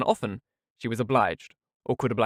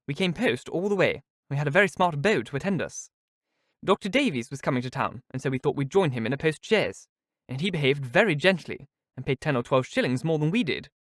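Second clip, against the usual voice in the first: a lightly raised, boastful voice; Miss Steele, exulting; 3 semitones higher than usual. Acted. Miss Steele brags about the trip, mildly exulting. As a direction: show off the smart beau. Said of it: "with quick exultation".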